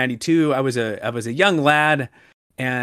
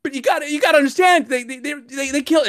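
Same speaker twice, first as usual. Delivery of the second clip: exasperated shout; 9 semitones higher than usual. Real, not acted. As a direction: beg them to understand.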